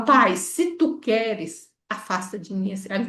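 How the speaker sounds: "pai, se tu queres" drawn out slowly and gently; slow humble plea. Shown as a demonstration. Teacher shows the right version, a slow humble request. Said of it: "Ele fala".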